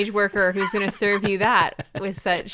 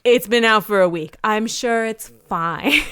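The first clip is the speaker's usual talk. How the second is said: a hint of a dismissive Roman mum, louder; lightly voiced mother; 2 semitones higher, 6 dB louder than usual. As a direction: play a mum waving it off, stretching the ending. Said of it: "who is a mother being like".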